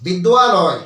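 বিদ্যালয় with a wa after দ; correct with wa. Shown as a demonstration. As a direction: say বিদ্যালয় as bid-dwa-loy. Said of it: "আমাদেরকে কি বলতে হবে". (ওয়া দিয়ে বিদ্যালয়)

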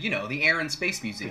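casual South Jersey "Air and Space"; mid-Atlantic accent, offhand. Retold or imitated. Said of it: "I said".

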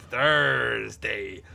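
put-on slow, stretched THURSDAY in a botched American accent; English actor drawing out THURSDAY as if American; mock American accent. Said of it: "He's trying to do an American accent".

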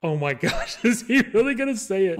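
can't believe he's about to say it; disbelief. Retold or imitated. Watching the classmate answer, laughing disbelief. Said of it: "I'm sitting there like".

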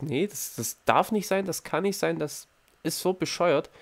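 high, stunned disbelief, half to himself; mock panic over the short test. Ungläubig über kurze Prüfung. (hoch und fassungslos, ungläubig)

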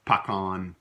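pecan with a short open first vowel, PAH-con; Louisiana pecan. Shown as a demonstration. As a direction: say pecan the Cajun way, stress on the first syllable. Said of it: "We do say pecan or pecan".

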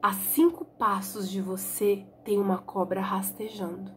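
hushed unvoiced warning whisper, slow. Blind boy whispering a warning to Tonho about the snake. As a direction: whisper so the snake won't hear. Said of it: "E o Dalmo disse".

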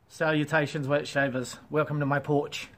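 put-on Australian greeting; Australian accent. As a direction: try an Australian accent for a challenge. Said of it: "Work on your Australian accent".

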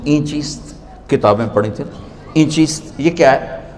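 softly voiced simple villager asking; a hint of a simple country dervish; innocent villager. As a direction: ask it naively, like a barefoot rustic. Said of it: "बड़े भोलपन में कहते हैं".

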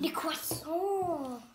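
slow, drawn-out mock French "Les croissants"; child hamming up a French accent for the camera. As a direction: savour "Les croissants" like a Parisian baker, slowly. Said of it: "your new French move".

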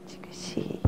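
very soft whisper. Shown as a demonstration. Teacher whispers over the sleeping baby. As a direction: breathe it out. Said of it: "near sleeping baby".

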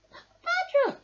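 high, loud call over the storm; loud rabbit yell. A narrator's reading. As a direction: shout to be heard in the wind. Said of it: "yelled Rabbit".

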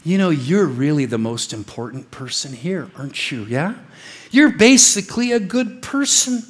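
butter them up like a smooth preacher; flattering false preacher. Retold or imitated. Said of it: "He's the guy from up front going".

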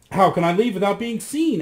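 in despair. Acted. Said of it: "in despair".

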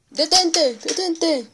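high, loud cry of stop; shouting. Acted. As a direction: yell stop at the engine.

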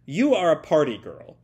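loud, declarative villain's order; acted commanding proclamation; hypnotic command. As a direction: pronounce it firmly, like casting a spell.

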